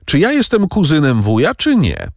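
heated indignant question; angry outburst. A narrator's reading. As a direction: demand it of the uncle with hurt pride. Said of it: "zawołał gniewnie".

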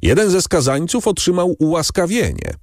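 normal talking voice

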